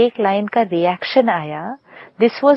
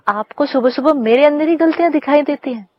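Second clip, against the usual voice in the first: higher, irritated retort; hammed-up huffy complaint; mock indignant outburst; 4 semitones higher than usual. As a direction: play the offended wife snapping back at the critic. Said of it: "मैं बोला".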